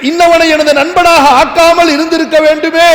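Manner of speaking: preacher acting out a sinner's regretful cry; declaimed outcry, a touch of anguish; mock wailing lament. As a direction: cry out the regret, stretching the last vowels. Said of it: "எப்படி கதறுவான்".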